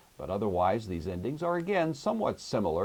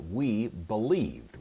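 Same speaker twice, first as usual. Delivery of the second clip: slow, deliberate translation; slow gloss; 3 semitones higher, 3 dB louder, much slower than usual. Shown as a demonstration. Teacher to class, slowly giving the translation. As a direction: spell out the meaning slowly for students. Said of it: "The first person plural ending is going to make it".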